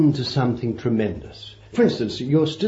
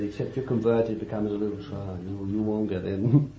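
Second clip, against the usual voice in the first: quoting Jesus; 4 semitones lower, 8 dB quieter, faster than usual. Retold or imitated. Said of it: "He said".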